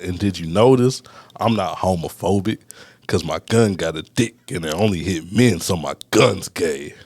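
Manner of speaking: lightly voiced battle rap in the style of a rapper. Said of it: "I'm gonna deliver it like a rapper".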